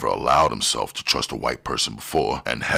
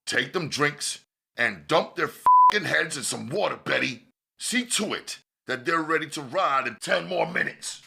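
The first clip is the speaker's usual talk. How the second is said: higher, angry barked order; 12 semitones higher than usual. Acted. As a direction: bark the order in anger. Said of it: "his anger growing".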